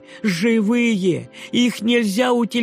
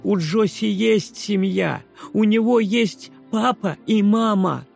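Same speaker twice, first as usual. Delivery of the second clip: high, loud plea; protesting boy; 8 semitones higher, 4 dB louder than usual. A narrator's reading. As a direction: insist through tears. (мальчик громко протестует)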